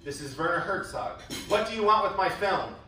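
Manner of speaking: put-on mild angry German accent; Werner Herzog. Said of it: "indeed angry sounding and German sounding".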